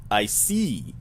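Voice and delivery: touch of fake Russian accent; measured reply in a light Russian accent; faux Russian accent. Clerk answering the visitor, faux Russian accent. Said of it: "a, faux Russian accent".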